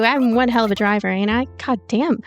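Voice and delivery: ordinary delivery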